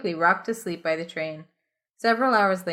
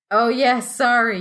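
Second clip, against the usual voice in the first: louder, higher flustered apology; 4 semitones higher, 7 dB louder, slower than usual. Acted. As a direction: sound caught off guard. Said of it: "rubbing your eyes".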